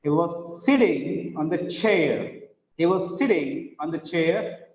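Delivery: "sitting" with one light t; single t sound. Shown as a demonstration. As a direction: say "sitting" without doubling the t. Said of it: "It is sitting".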